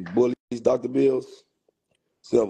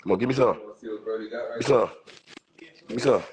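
very slow, stretched-out coax; stretched-out coaxing of his dog; much slower than usual. Real, not acted. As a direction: draw the words out to coax the dog.

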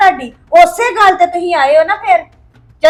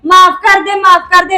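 mocking; 3 semitones higher, 6 dB louder than usual. Wife mocks his apology.

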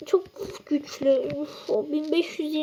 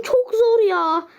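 slow, tearful groan; whiny despair; 3 semitones higher, slower than usual. Real, not acted. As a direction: drag it out in frustration. Losing the fight. (ağlamaklı, yavaş sızlanma)

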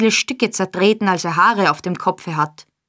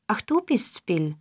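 glad surprise; 2 semitones higher, 5 dB quieter than usual. A narrator's reading. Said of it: "erfreut über sein Kommen".

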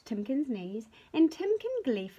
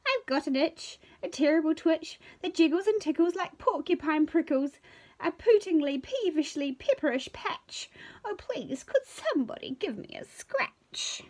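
high, loud, fretful bird voice; fussy bird; 7 semitones higher, 4 dB louder than usual. Acted. Bird begs friends to scratch her itch, high and fretful. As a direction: complain in a high fluttery squeal. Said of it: "cried Feather McDoo".

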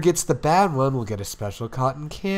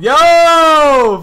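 shouted yo, pitched high; loud greeting; 11 semitones higher, 13 dB louder than usual. Acted. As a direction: bark out a big hello. Nishinoya's big entrance.

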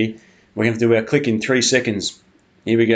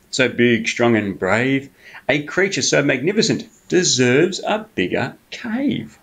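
sly flattering fox; 2 semitones higher, slower than usual. Acted. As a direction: stretch the praise out to charm the bear. Fox flatters Bear, drawn out.

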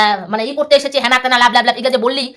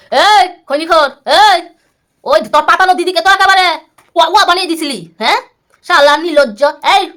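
louder, higher, heated; calling out angrily; 3 semitones higher, 3 dB louder than usual. Real, not acted. Vlogger calling out rival about his adopted sister, louder. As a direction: yell across at him.

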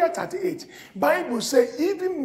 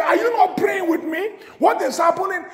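pleading shout; 5 semitones higher than usual. Acted. Preacher voicing Hezekiah's plea.

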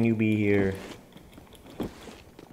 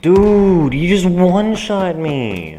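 much louder, high outraged yell; furious shout; 8 semitones higher, 10 dB louder, slower than usual. Real, not acted. Gamer one-shot by an opponent, yelling furiously. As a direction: scream at the shotgunner. Shotgunned in game.

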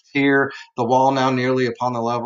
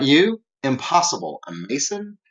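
mock incredulity; 3 semitones higher than usual. Retelling Fortunato doubting Montresor is a Mason, mock incredulous. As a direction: act out a scoffing disbelief.

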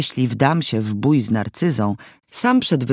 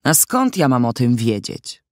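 ja heavily punched in an indignant question; stress on ja. A narrator's reading. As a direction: strike the word ja hard. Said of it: "Tak uderzyła w słówko „ja".

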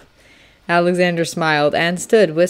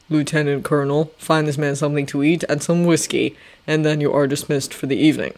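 lower, measured commanding general; General Washington; 3 semitones lower than usual. Acted. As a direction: speak like a calm stern general. Washington orders.

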